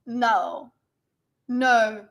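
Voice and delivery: attempted American Valley Girl "no"; Valley Girl accent. Shown as a demonstration. Streamer guessing how a typical girl says it, Valley Girl accent. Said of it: "how would a typical girl say it?".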